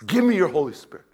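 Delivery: mock prayer. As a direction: model the prayer for them. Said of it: "You need to ask God".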